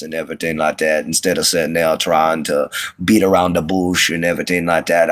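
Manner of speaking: imitated thick Southern Cajun twang; family twang. Shown as a demonstration. Showing how he could have talked, thick twang accent. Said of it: "sitting there talking like this".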